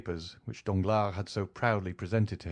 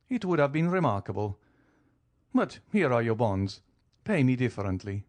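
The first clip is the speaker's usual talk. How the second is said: lightly voiced count, cool and amused; an easy, teasing nobleman calmly pressing his claim; 3 semitones higher than usual. Count calmly teases the banker over his millions, lightly voiced.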